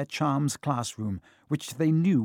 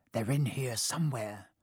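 muttered; 6 dB quieter than usual. A narrator's reading. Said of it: "they heard him mutter".

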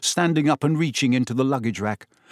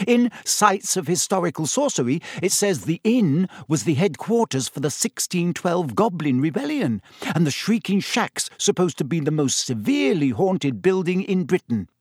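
higher, eager bookish rush; 5 semitones higher than usual. Acted. Hermione pushing her history facts on the boys, eager and higher. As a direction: press on keenly with the facts. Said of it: "Hermione pressed on eagerly".

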